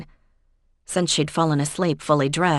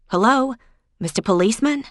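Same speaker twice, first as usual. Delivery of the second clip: high, louder mock hail; sarcastic call; 7 semitones higher, 4 dB louder than usual. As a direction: snap him back to attention. Maura snaps at distracted Sean.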